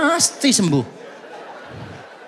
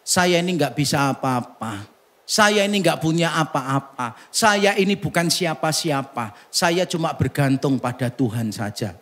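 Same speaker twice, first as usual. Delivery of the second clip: humble confession; 5 semitones lower, 4 dB quieter than usual. Acted.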